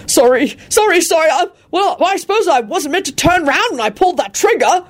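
high, tearful flustered apology; near tears. A narrator's reading. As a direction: apologize almost crying. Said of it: "nearly in tears".

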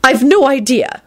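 put-on high, weary elderly lady; sighing old woman. A narrator's reading. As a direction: sigh it wearily. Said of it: "she sighed".

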